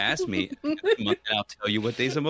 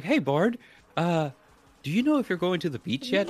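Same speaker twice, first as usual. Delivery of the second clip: mimicked brother-in-law; 9 semitones higher than usual. Brother-in-law voiced higher.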